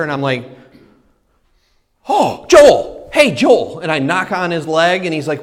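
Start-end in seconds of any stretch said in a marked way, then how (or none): 2.1-3.8 urgent nudge. Retold or imitated. Nudging friend during church.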